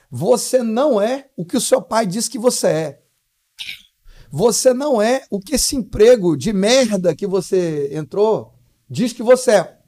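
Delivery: slow, weighty motherly rebuke, imitated; forceful admonishing. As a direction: drive each phrase home like a scolding mother.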